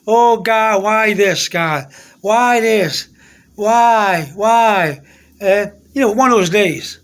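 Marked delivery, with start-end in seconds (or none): 0.1-5.0 mildly exasperated complaint; re-enacted grumbling at God; retold anger. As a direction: plead why in mock frustration. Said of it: "I was mad".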